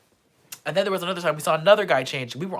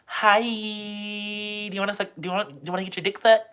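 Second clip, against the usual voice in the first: retold drunk catcall; 6 semitones higher, 4 dB louder, much faster than usual. Drunk student yelling at men on the street, loud retold catcall. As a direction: holler a tipsy street catcall. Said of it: "yell at hot Korean men".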